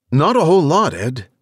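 quick answer from the field; field reporter. Acted.

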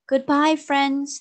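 loud, high farewell called across the water; calling goodbye. Acted. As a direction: call out goodbye to friends far off. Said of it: "they called".

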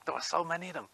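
laughing through the words. Real, not acted. Vlogger laughing about kids swarming the shop. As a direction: chuckle while you say it.

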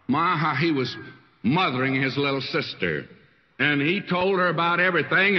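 ordinary talk, nothing marked

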